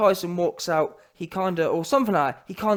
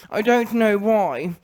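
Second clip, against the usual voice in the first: slow, mock Canadian-American accent; Lennox Lewis; slower than usual. Imitating a boxer baffled by criticism, mock North American accent. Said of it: "In his weird ass Canadian, U S A".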